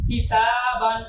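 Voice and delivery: কিতাবান with the middle vowel sustained; one-alif stretch. Shown as a demonstration. Teacher shows the rule just explained, তা stretched in কিতাবান. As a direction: hold তা long, then finish কিতাবান. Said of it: "আমরা এক আলিফ টান দিব".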